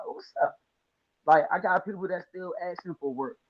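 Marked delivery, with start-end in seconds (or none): 0.1-0.6 jumps way up in pitch, surprised; a sudden high surprised hello; surprised greeting. Retold or imitated. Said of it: "I'm like".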